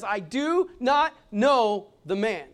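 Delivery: mock cursing denial; swearing denial. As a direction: spit out the denial slowly, cursing. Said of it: "with cursing, swearing".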